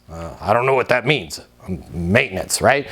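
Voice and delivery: low, mumbled, clueless worker voice; put-on low voice, unsure; baffled maintenance worker. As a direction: mumble it low like a confused handyman.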